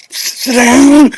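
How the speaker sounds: put-on almost yell "Sit down" at the bouncing boy; mock yell. Shown as a demonstration. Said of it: "You wanna yell".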